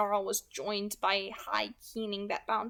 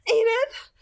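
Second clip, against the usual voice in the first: much higher and louder, rising in alarm; startled question; 11 semitones higher, 10 dB louder than usual. Acted. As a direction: ask in sudden shock. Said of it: "Corinne asked, startled".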